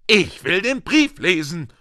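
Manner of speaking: put-on high, insistent boy's voice; loud demand. A narrator's reading. Son ignored by parents, loud high demand. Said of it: "sagte er laut".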